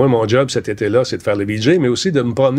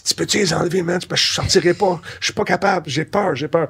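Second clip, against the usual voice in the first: mock scared; 5 semitones higher than usual. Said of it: "Il avait peur des araignées".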